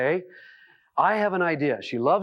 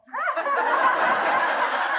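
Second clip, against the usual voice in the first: high laugh. Real, not acted. Audience laughing at his story.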